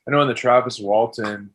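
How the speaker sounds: muffled voice inside a helmet; talking through a helmet. Real, not acted. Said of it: "it actually does sound like you have a helmet on".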